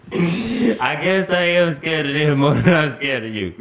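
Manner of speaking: imitated sheepish protest; pleading excuse. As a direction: reason with granny, playfully pleading. Child answering granny back.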